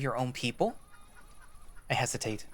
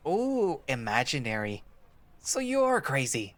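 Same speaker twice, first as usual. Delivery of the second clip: teasing ooh. Acted. Boy teases about imaginary friend.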